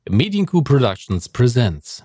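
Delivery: movie trailer voice. Pretend. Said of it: "mit Kino-Trailer-Sprecherstimme".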